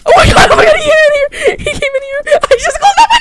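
high, loud frantic yelling; panicked screaming. Real, not acted. Player finding intruder in his base, panicked screaming. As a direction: shriek it in alarm.

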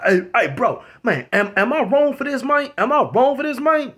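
retold appeal. Retold man appealing to neighbour.

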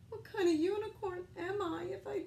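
high, tearful lament; high crying storybook lament; tearful unicorn. Acted. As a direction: plead through tears. Unicorn laments lost colors.

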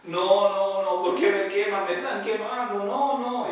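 put-on a burned girl pleading; pained cry. Girl cries being burned. (súplica aguda imitada)

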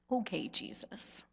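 soft, patronising placation; conciliatory. Retold or imitated. Churchgoers placating Jesus, mild conciliatory tone. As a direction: mildly humour him, gently. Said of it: "in our most conciliatory tones".

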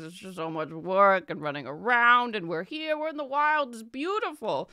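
lightly voiced chatty merchant. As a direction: ramble on fondly. Merchant backstory.

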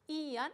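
ian with the i stressed. Shown as a demonstration. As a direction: lean on the i in ian. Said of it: "acento sobre i".

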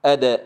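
أدا said with a crisp bounced d; teacher's model of أدا with an echoing d; clear bouncing dal. Shown as a demonstration. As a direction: demonstrate أدا, releasing the d cleanly. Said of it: "قل معي".

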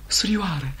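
quiet tender "Surioară"; soft address. Acted. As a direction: say "Surioară" gently, almost to yourself. Tender address, then repeated.

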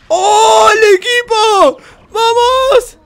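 high, loud, stretched cheer; triumphant shout. Real, not acted. Gamer cheering his team on, triumphant high shout. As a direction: roar for the team.

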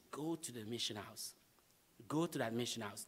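a quiet inner voice giving an order; voice of God. Retold or imitated. God speaking to him on the long walk back, hushed. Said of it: "I hear the voice of God".

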